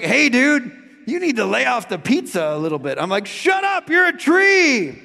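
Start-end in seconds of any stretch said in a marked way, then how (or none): 0.0-3.0 a lightly voiced talking tree, teasing. The bent tree teases him about the pizza, lightly voiced. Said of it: "the Christmas tree was like". 3.3-5.0 high, slow hammed-up shout; mock shout. Hanging off the cliff, he yells back at the tree in a high mock shout.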